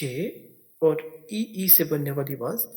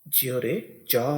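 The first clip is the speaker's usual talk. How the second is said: slow spelled sound; 4 semitones lower, much slower than usual. Shown as a demonstration. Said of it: "ये आवाज़ पैदा करते हैं जा".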